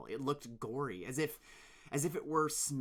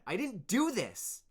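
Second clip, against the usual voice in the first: pleading; 11 semitones higher, 9 dB louder than usual. Acted. Dune pleads.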